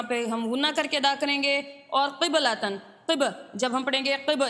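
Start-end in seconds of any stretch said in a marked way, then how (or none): 3.1-3.2 قِب with a bouncing echo on the stopped ba; qalqala. Shown as a demonstration. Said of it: "اس طرح سے ہم آواز کریں گے".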